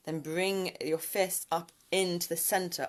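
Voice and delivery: whisper. Real, not acted. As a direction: whisper the step gently. Guiding a hand mudra.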